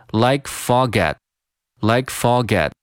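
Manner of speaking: "like forget" as one joined chunk; linked like fog at. Shown as a demonstration. Teacher adding at to the chain, "like forget". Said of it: "然后再加上at".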